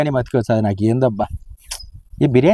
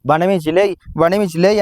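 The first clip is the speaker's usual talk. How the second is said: mocking her nagging; 3 semitones higher than usual. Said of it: "అని పెట్టినావు".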